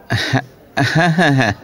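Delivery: laughing agreement on the phone; chuckling. Acted. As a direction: chuckle through each yes. (হাসতে হাসতে সায় দেওয়া)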